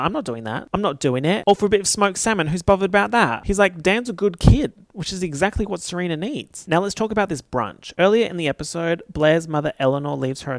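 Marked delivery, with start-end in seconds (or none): 0.0-4.7 mock Rufus. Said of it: "Rufus is like".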